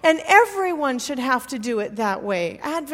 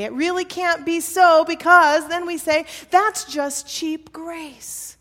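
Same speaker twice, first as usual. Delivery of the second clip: higher, louder voice of protest; mock objection; 3 semitones higher, 6 dB louder than usual. Preacher voicing those who doubt divine generosity, mock objection. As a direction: push back in disbelief, voicing the doubters.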